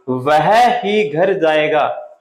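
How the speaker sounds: very slow, weight on "वह ही"; stress on ही. Shown as a demonstration. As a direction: press ही hard after वह. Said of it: "जोर दे करके".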